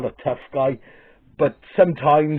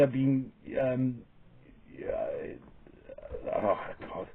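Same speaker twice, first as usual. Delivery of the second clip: hesitant; 12 dB quieter, much slower than usual. Real, not acted. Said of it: "I hate to say the word".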